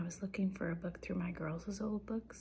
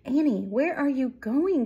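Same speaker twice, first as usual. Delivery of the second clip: loud, higher sing-out question; storybook mouse hollering after a friend; calling out; 4 semitones higher, 13 dB louder than usual. A narrator's reading. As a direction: call after someone running away. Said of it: "called Melissa".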